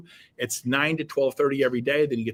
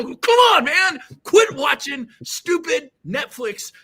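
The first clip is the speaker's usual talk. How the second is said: fired-up shout; 11 semitones higher, 6 dB louder, slower than usual. Real, not acted. Host urging listeners to quit Netflix, fired-up shout. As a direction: shout it, pitch way up.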